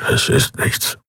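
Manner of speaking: breathy murmured whisper; low whisper. Acted. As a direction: mutter it under your breath. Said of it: "brummte Keru leise".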